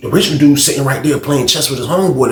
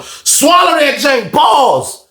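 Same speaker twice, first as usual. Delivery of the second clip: amazed exclaim; 12 semitones higher, 3 dB louder, much slower than usual. Retold or imitated. Marveling at huge man sitting.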